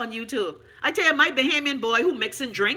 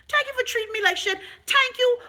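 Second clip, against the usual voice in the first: mock thanks; 11 semitones higher than usual.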